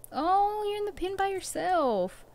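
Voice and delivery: high, drawn-out pitying coo; cooing sympathy. Real, not acted. Player to an animal alone in the pen, cooing. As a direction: coo sympathetically, pitched well up. Coos to stranded game animal.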